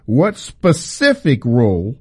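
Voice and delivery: "what specific role" read deliberately as capitals; weight each word of "what specific role"; emphatic "what specific role"; stress on what specific role. Real, not acted. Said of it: "these are in capital letters".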